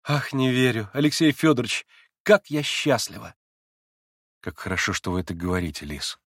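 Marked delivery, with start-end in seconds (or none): 0.0-3.3 put-on eager young woman pressing her point; young Lise. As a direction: play the agitated young girl Lise. Lise happy.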